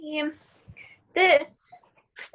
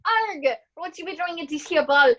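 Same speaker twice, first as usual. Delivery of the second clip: pirate voice. Acted. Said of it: "Scottish pirate named Mac".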